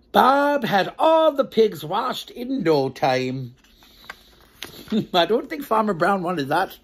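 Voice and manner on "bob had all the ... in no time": slow, clear storybook narration; reading to children. A narrator's reading. Storyteller narrating the farm tale to children. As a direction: read it out slowly for little ones.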